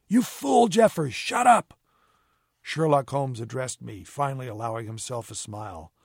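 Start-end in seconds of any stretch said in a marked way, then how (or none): 0.1-1.7 very high, loud angry shout; furious rebuke. A narrator's reading. Moran to the mate who exposed him, furious rebuke. Accomplice snaps at the drowning mate.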